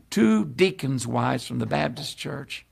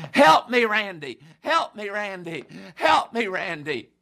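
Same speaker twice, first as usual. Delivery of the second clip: tearful plea; 3 semitones higher than usual. Retold or imitated. Crying man begs the preacher.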